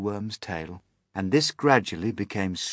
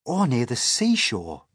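put-on raised, slightly louder boyish eagerness; higher, keen suggestion; eager; 4 semitones higher, 5 dB louder than usual. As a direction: chime in eagerly as a young boy. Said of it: "said James eagerly".

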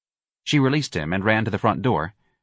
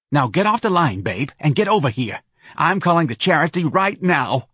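a lightly voiced brassy New Orleans woman, a bit higher; Santa's voice; 7 semitones higher, 4 dB louder than usual. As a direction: push Irene to call the charity, lightly in character. Santa orders Irene off line.

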